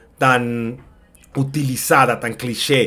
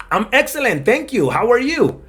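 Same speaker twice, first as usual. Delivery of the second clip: lightly voiced second speaker, pitched up; thinner voice; 9 semitones higher than usual. Shown as a demonstration. Other person answers the greeting, thinner voice. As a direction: answer in a slightly thinner, higher voice. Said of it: "un poquito más delgada en las otras".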